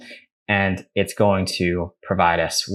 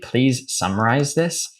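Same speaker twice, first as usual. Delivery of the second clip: slow dictation; slower than usual. Shown as a demonstration. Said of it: "I'm gonna say to chat G P T".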